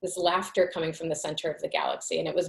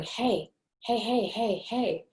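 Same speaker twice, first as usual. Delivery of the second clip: higher, rhythmic chanted heys; rhythmic drumming hey; 5 semitones higher, slower than usual. Retold or imitated. Imitating the entity calling her in her husband's voice, rhythmic chant. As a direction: beat out each hey like a drum. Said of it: "like, in this rhythmic drumming sound".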